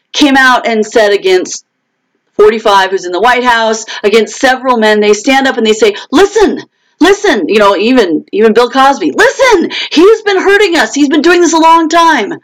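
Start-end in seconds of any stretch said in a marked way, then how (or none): 6.1-12.3 high, pleading voice; mock-pleading high women's voice. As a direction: cry out to be believed. Women telling of abuse, voiced.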